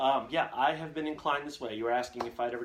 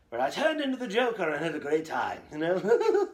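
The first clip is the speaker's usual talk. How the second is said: laughing; 5 semitones higher, 6 dB louder than usual. Real, not acted.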